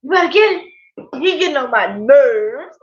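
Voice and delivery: mock exasperation, swooping up at the end; playful retelling of an uncle's grumble; imitating uncle's complaint. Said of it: "he would tell my grandma".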